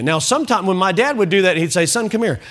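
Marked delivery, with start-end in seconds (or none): 1.9-2.4 casual, unthreatening fatherly summons; easygoing dad call. Retold or imitated. Dad calling his son over for a chat, easygoing. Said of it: "If he said it in that tone".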